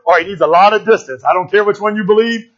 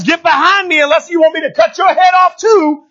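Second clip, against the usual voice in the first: higher-pitched, forceful mock order; retold command; 7 semitones higher than usual. Jehu telling soldiers to fall in, forceful retold command. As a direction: order them back, acting it out. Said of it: "telling soldiers".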